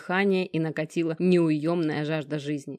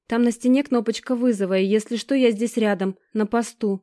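higher, hurried nervous babbling; frightened babble; 4 semitones higher, 4 dB louder than usual. Acted. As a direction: babble it out scared. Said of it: "лепечет".

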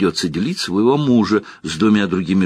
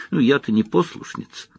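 high squeaky mocking voice; 7 semitones higher than usual. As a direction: squeak it out like a timid novice. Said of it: "она произнесла писклявым голосом".

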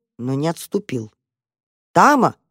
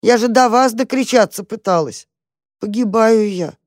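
pitiful cat; 6 semitones higher, 3 dB louder than usual. Acted. Starving cat complains.

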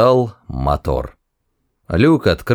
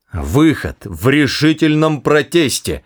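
exclaiming; 6 semitones higher than usual. Acted. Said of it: "воскликнул Форд".

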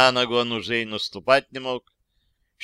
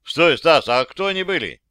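louder urgent call; calling after him; 4 semitones higher, 6 dB louder than usual. Acted. Calling after Stas as he leaves, louder. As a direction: shout after him before he goes.

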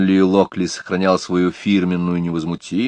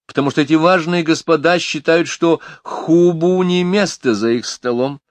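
lightly voiced lady grumbling; complaining lady; 10 semitones higher, 4 dB louder than usual. A narrator's reading. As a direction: whine about the grumpy colleagues. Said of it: "пожаловалась Миломори".

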